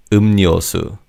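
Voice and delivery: 음료수 said as eum-nyo-su, ㄹ turned to ㄴ; 음료수 with the second syllable starting on an n sound; liquid changed to n. Shown as a demonstration. Teacher shows learners the correct nasalised 음료수. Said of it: "the 리을 in the second syllable changes to 니은".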